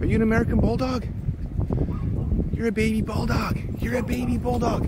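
high, cooing pet voice. Real, not acted. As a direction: fuss over the puppy way up high. Baby-talking to a bulldog.

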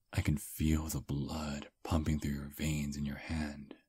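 breathy intimate whisper, close to the ear. Acted. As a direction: lean in and whisper it. Intimate whisper while holding hand.

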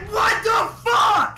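startled shout, high and slow. Real, not acted. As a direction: yell it out in disbelief. Startled outburst at teammate.

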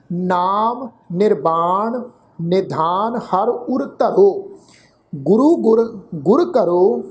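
slow, measured verse reading with pauses; slow sacred-verse recital; scripture recitation. Shown as a demonstration. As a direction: recite each phrase deliberately, drawing out the words.

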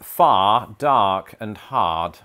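Boston accent. Shown as a demonstration. Offering alternative example words, punched Boston accent. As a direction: give each word a broad Boston "ah". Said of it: "do a Boston accent".

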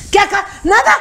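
high-pitched, defensive backpedalling; mock innocent protest; flustered denial. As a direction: imitate someone caught out. Actress's flustered denial, acted.

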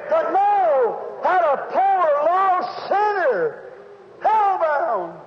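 emphatic revival preacher cadence; stirred-up pulpit delivery; fervent preaching. Acted. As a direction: proclaim the promise, stretching the weighty words. Preaches on God's promise.

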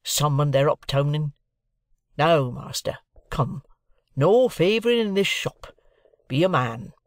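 demanding journeyman. A narrator's reading. Voices Orlick demanding fairness.

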